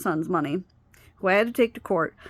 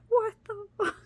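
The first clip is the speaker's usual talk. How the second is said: alarmed cry, much higher; panicked cry. Retold or imitated. Hearing her stepdaughter scream through the door, panicked cry. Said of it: "and I'm like".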